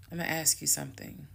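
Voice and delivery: quick, softly trailing calm request. Retold or imitated. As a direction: ask it quietly, without confrontation. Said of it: "this is the tone I had".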